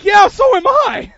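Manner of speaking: high, drawn-out comic yell; comic shout. Retold or imitated. Preacher joking that he'd spend the money too, shouting. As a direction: explode into a mock-eager holler.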